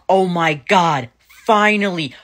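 over the moon at last; thrilled. Retold or imitated. To her family, thrilled that dad refuses duck.

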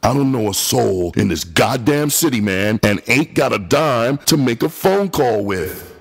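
broken voice. Acted. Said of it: "Her voice was broken".

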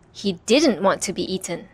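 ordinary delivery, nothing marked

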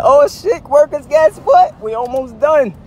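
retold calling out. Would-be landscaper telling workers they are almost done, retold calling out. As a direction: call it out to a crew.

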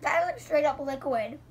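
speaking between bites; chewing while talking. Real, not acted. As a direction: mouth partly full. Seen 3: Left girl bit chocolate just before; jaw moves while speaking, piece in hand.

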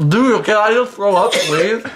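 high, gagging plea; nauseated pleading. Real, not acted. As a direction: beg to spit it out. Eating the puke fruit.

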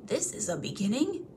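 pleased whisper. Acted. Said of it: "warming to his new work".

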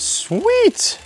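high, bright cry of delight; excited. Real, not acted. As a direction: cheer at the bike. Excited exclamation.

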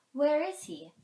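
high, loud owl's question. A narrator's reading. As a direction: call it out as a searching owl. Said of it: "asked the Owl of Many Questions".

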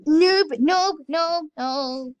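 loud mocking taunt. Real, not acted. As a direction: jeer at them. Taunting another player.

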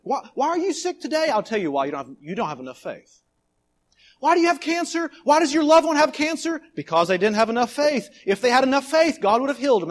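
mocking false teacher. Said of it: "here's a teaching out there".

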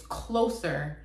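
closer in an American accent, R sounded at the end. Shown as a demonstration. Explaining the song title to viewers, American accent. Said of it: "that American accent".

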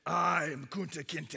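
slow, drawn-out, effortful declaration; defiant, battered. Acted. Beaten chief pulling himself up again, defiant. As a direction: hold on to each word stubbornly. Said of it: "he pulled himself up again and he said".

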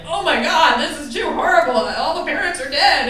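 high, loud hammed-up horror at a gruesome tale; mock horror. Adult reader shocked by violent fairy tales, hammed-up horror. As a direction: gasp it out like a shocked grown-up, half joking.

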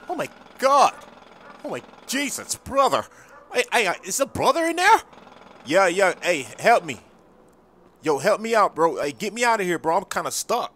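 high, loud frantic pleading from inside a trash can; panicked voice calling out of a trash can; trapped guy pleading. Acted. Trapped trash guy begging for help.

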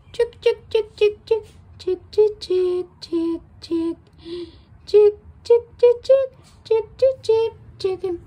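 high, loud chick-chick call; calling chickens. Real, not acted.

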